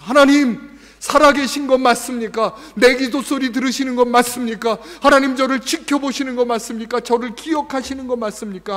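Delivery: 높고 크게 부르짖는 탄식; lament. Pretend. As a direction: cry out high and loud to God in anguish. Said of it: "하면서 탄식하는 분들이". (높은 목소리로 크게 부르짖는 탄식)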